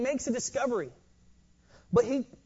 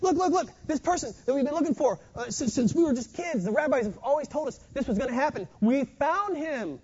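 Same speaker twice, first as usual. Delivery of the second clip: fast, higher, tumbling over the words; a lightly voiced, eager Philip gushing; a hint of a breathless friend spilling the news; excited Philip; 4 semitones higher than usual. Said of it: "he's bumbling, he's stumbling, he's excited".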